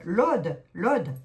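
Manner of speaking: "l'Aude" with a short open o; corrected vowel. Real, not acted. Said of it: "pas l'Aude".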